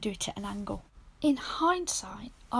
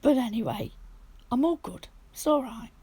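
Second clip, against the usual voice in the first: hoarse, sore throat voice; croaky, half-whispered from a sore throat; 3 dB louder than usual. Real, not acted. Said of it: "I've still got a croaky voice".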